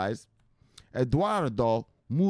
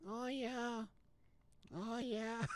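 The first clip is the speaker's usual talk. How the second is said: possessed voice; 11 semitones higher, 15 dB quieter, much slower than usual. Pretend. Possessed voice again.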